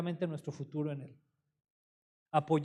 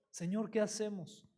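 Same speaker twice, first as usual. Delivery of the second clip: retold quiet prayer; 6 dB quieter than usual. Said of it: "Empezó a orar así".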